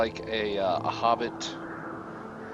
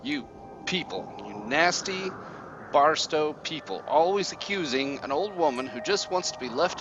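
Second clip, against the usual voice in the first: high, resentful hag rant; bitter old witch; 5 semitones higher than usual. Acted. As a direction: complain like a wronged crone. Witch rants at townsfolk.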